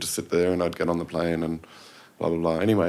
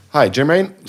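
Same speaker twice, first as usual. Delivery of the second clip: flubbed announcer read; 8 semitones higher, 9 dB louder, slower than usual. Retold or imitated. Jermaine fluffing his PSA read.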